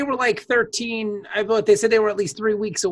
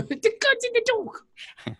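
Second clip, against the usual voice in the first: high, slow put-on British; mock British; 11 semitones higher, 3 dB quieter, slower than usual. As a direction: repeat it like a pompous Englishman. Echoing British bit.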